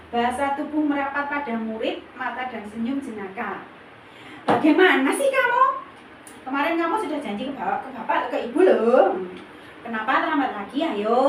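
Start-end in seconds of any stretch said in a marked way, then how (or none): 4.4-11.2 friendly teasing. Shown as a demonstration. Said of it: "nada suara ramah, akrab, dan bercanda".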